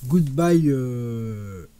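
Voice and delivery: The album title in a strong French accent. Real, not acted. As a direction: say the English title the French way. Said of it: "Désolé encore une fois pour l'accent".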